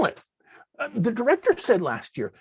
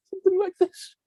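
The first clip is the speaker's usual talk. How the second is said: high put-on melodrama voice; dramatic death scene; 8 semitones higher than usual. Shown as a demonstration. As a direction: start the big death scene. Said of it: "dramatic death scene".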